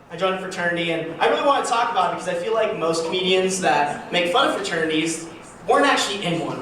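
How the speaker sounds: normal talking voice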